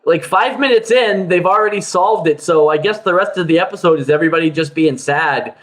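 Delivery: lightly animated retold aside to Lydia; retold quote. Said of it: "and I said".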